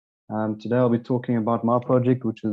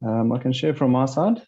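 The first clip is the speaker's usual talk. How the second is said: headphones used as mic. Real, not acted. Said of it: "I've got to speak through headphones".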